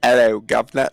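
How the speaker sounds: mock British accent, a bit forceful. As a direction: slip into a stagey British accent. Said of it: "like, British".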